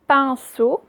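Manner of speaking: loud, careful "pinceau" with rising end; reading out words. Shown as a demonstration. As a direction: dictate "pinceau" syllable by syllable. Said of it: "je vous lis d'abord les mots".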